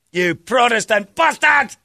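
high, drawn-out insult; hammed-up Scottish fury; mock anger. Imitating a sectarian grudge, slow high mock-angry outburst.

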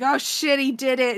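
retold thrilled exclamation; imitated excitement. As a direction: act out an overexcited lord. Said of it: "in his excitement".

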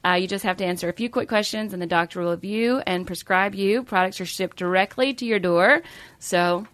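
smooth sponsor ad voice; ad read. Acted. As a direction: read it like a podcast ad. Reads sponsor ad.

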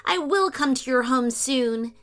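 sweetly. Acted. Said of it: "she replied sweetly".

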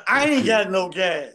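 slow, laughing mock echo; a light laughing parody. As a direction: throw his excuse back at him.

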